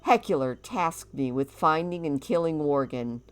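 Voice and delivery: hammy orc warrior voice. Acted. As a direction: boast like a proud orc. Voices Orcus telling his story.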